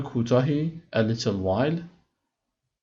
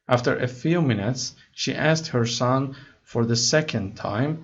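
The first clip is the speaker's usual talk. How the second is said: slow, careful read-aloud of English text; slow story reading; much slower than usual. Acted. Teacher reading the English story to students slowly. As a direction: read each word slowly for learners.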